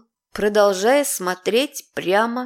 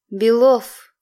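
louder, amazed calling out his name; astonished; 5 dB louder than usual. Acted. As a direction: blurt his name in shock. Изумлённое обращение к Белову. (изумлённо)

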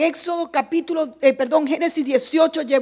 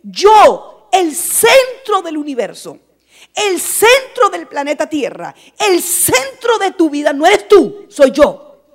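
voice of God; 3 dB louder than usual. Acted. Preacher voicing God speaking.

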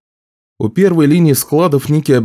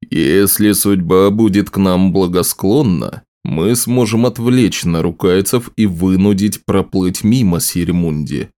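theatrical wizard; 2 semitones lower than usual. Acted. Wizard laying out a plan to the group, lightly theatrical. The speaker as if taking the stage.

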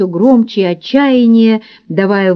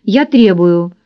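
firm, distinct, raised commands; firm commanding voice; 3 semitones higher than usual. Acted. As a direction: order her like a stern hypnotist. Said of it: "заговорил твёрдо и отчётливо, повысив голос".

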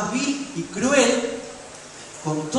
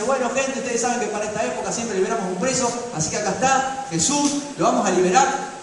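raised, announcing voice to a mob; Pilate addressing the crowd; 5 semitones higher than usual. Retold or imitated. Pilate presents Jesus to the crowd, raised proclaiming voice. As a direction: call it out like a governor presenting a prisoner. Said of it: "medio que lo saca la multitud y dice".

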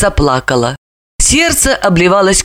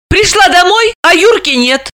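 agitated; 11 semitones higher, 3 dB louder than usual. A narrator's reading. Сестра жалуется.

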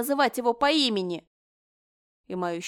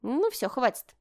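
businesslike; 4 semitones higher than usual. Acted. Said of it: "деловым тоном проговорила Линель".

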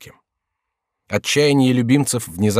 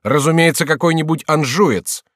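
eager shout; 7 semitones higher, 6 dB louder than usual. A narrator's reading. Courtier shouting accusation.

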